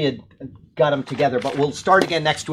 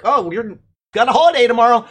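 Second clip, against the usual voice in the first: cheery coworker voice; 7 semitones higher, 7 dB louder, faster than usual. Retold or imitated. Imitating coworkers announcing holidays.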